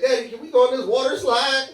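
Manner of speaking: hint of a child asking dad; daughter. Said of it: "My daughter said".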